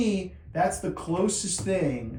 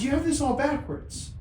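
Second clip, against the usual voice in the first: much higher, solemn divine voice; voice of God; 12 semitones higher than usual. Retold or imitated. God rebuking the father, high-pitched divine voice. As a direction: play God's voice high and deliberate. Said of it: "I wouldn't talk like this".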